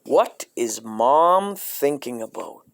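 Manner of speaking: creepy hushed question; ominous whisper. Acted. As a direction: whisper it with dread.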